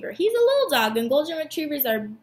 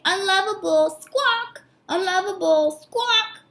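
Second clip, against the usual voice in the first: high parrot chant, squawk pitched higher; 5 semitones higher than usual. Acted. Parrot mocking the dog, high and squawky. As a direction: screech it out like a taunting parrot. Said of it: "taught the parrot to say".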